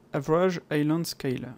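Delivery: English term in a French accent. Real, not acted. Tutorial host reading an English menu option, French accent. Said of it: "désolé pour mon accent".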